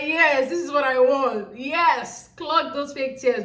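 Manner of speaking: drawn-out, relishing cheer; slow, emphatic egging-on; gleeful approval. Retold or imitated. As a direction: savour each word like a cheering spectator. Acts out her gleeful cheering reaction.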